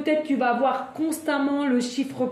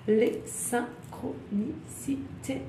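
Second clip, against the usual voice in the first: much softer, syllable by syllable; slow savouring repeat; 8 dB quieter, much slower than usual. Real, not acted. Tarot reader echoing her own phrase, slow savouring repeat. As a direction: draw it out softly, one syllable at a time.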